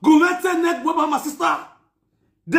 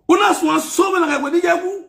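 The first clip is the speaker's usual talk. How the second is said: higher, rising shout on una; rising demanding shout; 6 semitones higher than usual. Acted. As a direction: yell the question up. Repeated line, shouted third time.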